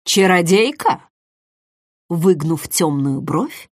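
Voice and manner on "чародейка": smooth, probing question with a rising end; gently insinuate as you ask; insinuating. A narrator's reading. Host opening his questioning of the guest, insinuating. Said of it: "с вкрадчивой интонацией".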